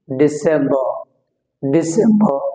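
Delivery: ডিসেম্বর with open "ba" ending; silent R. Shown as a demonstration. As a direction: drop the R at the end of ডিসেম্বর. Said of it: "এখানে রটা উচ্চারণ হচ্ছে না".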